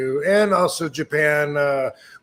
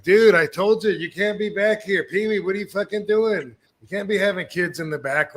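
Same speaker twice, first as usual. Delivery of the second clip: mock scolding shout; 5 semitones higher than usual. Retold scolding of Pee Wee.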